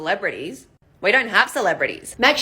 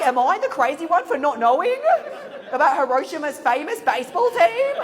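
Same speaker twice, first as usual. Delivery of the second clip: laughing; 6 semitones higher than usual. Retold or imitated. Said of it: "I'm like".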